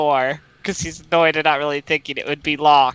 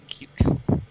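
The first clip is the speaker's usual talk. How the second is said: whispered. Acted. Whispered aside.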